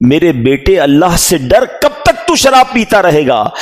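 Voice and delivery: pleading mother. Retold or imitated. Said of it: "ماں اسے سمجھاتی تھی".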